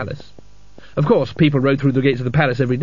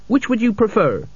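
higher, grinning menace; 8 semitones higher than usual. A narrator's reading. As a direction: grin without humour. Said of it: "he grinned".

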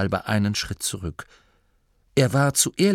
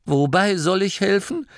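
puzzled; 10 semitones higher, 3 dB louder than usual. Acted. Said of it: "fragte der Jäger verwundert".

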